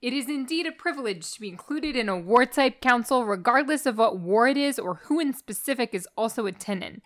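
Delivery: reading with a lightly put-on Long Island accent; a hint of a Long Island mobster read; a light New York Long Island accent read aloud. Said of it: "do it in your Long Island voice".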